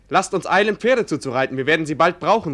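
calling out eagerly across the square; a lively shout, retelling a knight's call; retold call. Son retells the knight's call to his father, lively shout. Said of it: "rief er mir entgegen".

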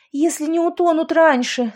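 high, loud, spitting out water; sputtering while swimming. A narrator's reading. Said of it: "отплёвываясь".

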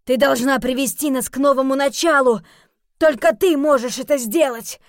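loud, high urgent cry; Robert shouting his demand at Chia; exclaiming. Acted. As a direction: press her hard, loud and high. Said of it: "вскричал Роберт".

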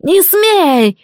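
high, loud shrieking no's in horror; terrified shriek. Acted. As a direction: shriek it as the voice breaks. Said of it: "Голос сорвался на визг".

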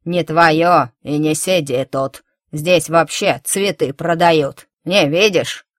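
put-on grumpy old woman shooing a child away; old woman scolding. Old woman chasing girl away.

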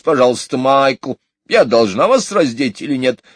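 high, loud gossiping nanny; high puffing gossipy maid; chattering maid. A narrator's reading. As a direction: fuss and grumble while undressing them. Maid Brill fussing, puffing.

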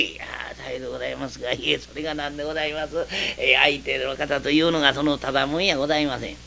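secretive near-whisper; hushed warning. Acted. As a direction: keep it down so the neighbour can't hear. Clerk warns in hushed tones.

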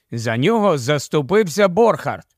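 ordinary delivery, nothing marked

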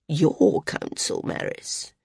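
slow, pointed "Your council", "Maris" dropping away; insistent. A narrator's reading. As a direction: lean slowly on "Your council", then drop "Maris" very soft. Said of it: "Sina insisted".

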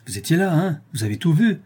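angry cry. A narrator's reading. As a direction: cry it out, beside himself. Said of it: "cria-t-il hors de lui".

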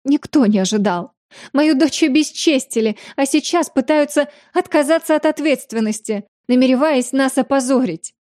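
high, whining tearful grievance; tearful complaint. Acted. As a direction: wail it with mock tears. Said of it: "всхлипнула леди Мансера".

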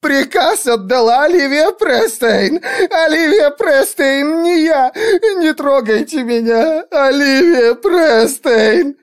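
shrill sobbing plea for mercy; terrified begging. Acted. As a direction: beg for your life through sobs. Lindsey cries out the name.

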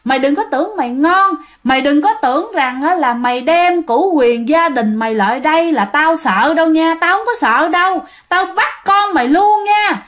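menacing taunt that builds to a high shriek; possessed wife taunting her husband, pitch rising throughout; possessed threat. Retold or imitated. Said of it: "mợ la lên".

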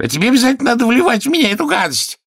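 high, fast, loud grumble; grumbling king. A narrator's reading. King grumbling at the healer, high fast grumble. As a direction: rattle off the complaint like a peevish king. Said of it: "брюзгливо сказал король".

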